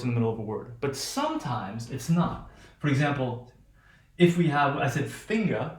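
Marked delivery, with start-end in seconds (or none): 5.1-5.8 FINGER with the hard g heard after the ng; audible g. Shown as a demonstration. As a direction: sound the g clearly in FINGER. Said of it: "g, you can hear it".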